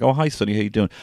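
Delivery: put-on high, sing-song hello to a little boy; mock friendly greeter. A grown-up greeting little Sonny, pitched high and sing-song. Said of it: "being like".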